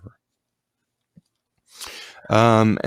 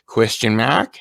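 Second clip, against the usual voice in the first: Australian upturn on "mark" in "Question mark?"; mock Australian. Shown as a demonstration. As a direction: end it going up like an Aussie. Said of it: "it would go like".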